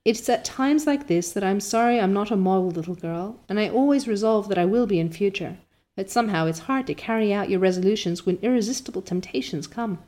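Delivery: rapturous Anne. Acted. Anne rapturous about dress.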